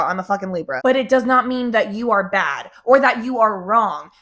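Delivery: usual speaking voice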